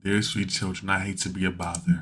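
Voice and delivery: the calm before the explosion, kept low and soft; quiet menace. Acted. The owner quietly threatens the kids who called him bald, low and soft.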